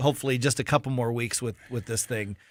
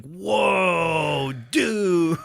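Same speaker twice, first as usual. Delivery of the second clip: put-on high school kid; 5 semitones higher than usual. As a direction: gush like a stunned teenager. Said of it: "the way high school kids talk".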